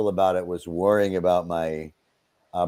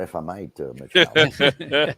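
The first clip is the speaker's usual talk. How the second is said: Brockmire voice. Pretend. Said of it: "I'll answer as Brockmire".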